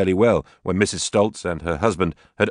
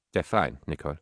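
soft, hesitant reply; very softly; 3 semitones lower, 7 dB quieter than usual. Acted. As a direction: answer barely above a hush. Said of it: "she replied very softly".

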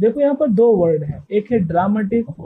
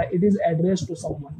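very slow, word by word, reading a definition; slow dictation; 4 dB quieter, much slower than usual. Shown as a demonstration. Teacher reading the textbook definition to students, very slow. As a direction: spell each word out for students to copy. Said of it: "teacher reads definition to class".

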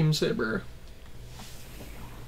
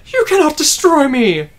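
defiant villain shout; 10 semitones higher, 10 dB louder than usual. Acted.

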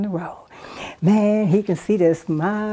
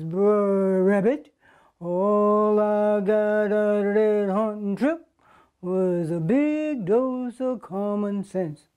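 dejected fox; 4 dB quieter than usual. Acted. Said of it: "Brer Fox says".

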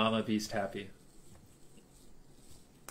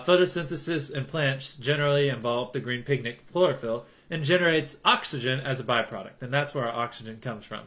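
normal talking voice

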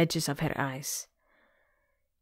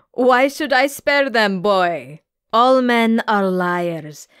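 slow, otherworldly sea-monster pronouncement; 4 semitones higher, 4 dB louder than usual. Acted. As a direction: drag it out like an ancient sea creature. Gorgona answers the girl.

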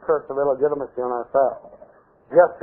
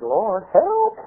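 raised pitch climbing on "help"; lightly acted appeal, rising at the end; mild plea; 5 semitones higher than usual. Stumped pastor asks God for help, mild plea. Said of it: "I said".

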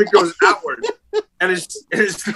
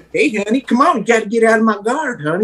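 mock coaxing; 4 semitones higher than usual. Mocking coaxing a grappling partner.

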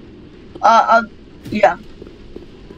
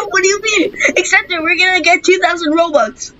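excited; 6 semitones higher than usual. Real, not acted. Excited in-game reaction.

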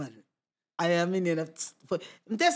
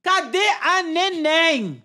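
higher, drawn-out call for someone; retold calling out; 5 semitones higher, much slower than usual. Asking around for the drunk friend, calling out. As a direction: call out slowly, stretching the words.

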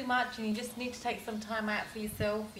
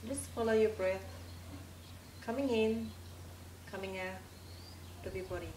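calm, measured meditation voice with long pauses; guided meditation. Acted. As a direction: lead a relaxation, leaving space after each phrase.

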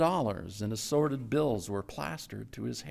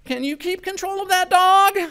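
higher, louder shout over the engine; 8 dB louder than usual. A narrator's reading. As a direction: bark the question over the roar.

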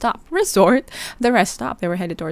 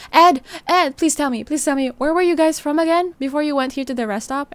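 urgent pleading; 7 semitones higher than usual. Retold or imitated. Darby urgently pressing Ed.

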